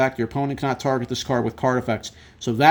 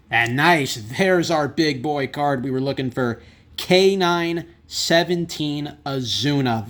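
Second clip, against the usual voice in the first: excited; 2 semitones higher, slower than usual. Real, not acted. Big card pulled.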